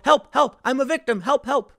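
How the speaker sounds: mock a crybaby yelling for help; mock victim cries. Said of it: "they go".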